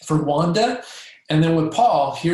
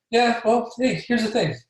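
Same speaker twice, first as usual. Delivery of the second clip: aloof; 6 semitones higher than usual. Shown as a demonstration. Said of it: "try your best to relate and be aloof".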